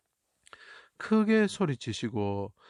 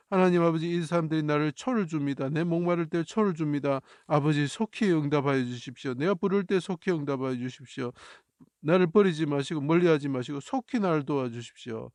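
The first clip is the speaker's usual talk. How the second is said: crying out; 3 semitones higher than usual. Acted. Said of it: "이렇게 부르짖는 모습을 나타내는 글자죠".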